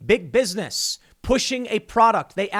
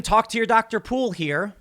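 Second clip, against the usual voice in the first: playful self-plug of "Doctor Poole", lifted higher; joking slip; 5 semitones higher than usual. Shown as a demonstration. Host jokingly tells Tim to see Doctor Poole, playful. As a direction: tease the line "talk to your Doctor Poole" with a rising tune. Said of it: "talk to your doctor about it".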